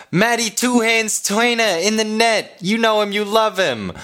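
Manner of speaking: lineup announcer. Acted. Host reading the lineup to fans, announcer style. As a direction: call the lineup like a PA man.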